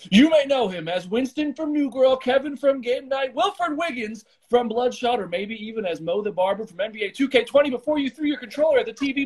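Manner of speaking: high, hyped ring announcer intro; wrestling promo. Acted. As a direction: sell it like a WWE promo. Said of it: "like, W W E style, cut a promo for you".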